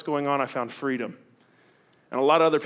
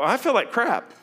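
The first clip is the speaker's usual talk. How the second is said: higher, louder blunt confession; blunt honesty; 9 semitones higher, 4 dB louder than usual. Retold or imitated. Answering church greeter, blunt honest admission. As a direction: blurt out the ugly truth. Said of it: "I go".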